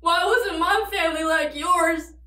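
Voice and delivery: crying through the words, half laughing; tragic heroine sorrow. Acted. Breaking down in her confession.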